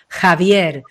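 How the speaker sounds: Javier lento y tranquilo, con entusiasmo contenido; demo empoderada. Shown as a demonstration. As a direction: dilo lento desde el poderío. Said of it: "desde el empoderamiento". ("Javier" despacio y sereno, con poderío)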